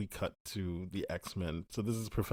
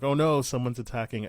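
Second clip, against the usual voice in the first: loud, higher-pitched retold panic; mock alarm; 5 semitones higher, 8 dB louder than usual. Host voices the X-Men under attack, mock alarm. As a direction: imitate a team raising the alarm.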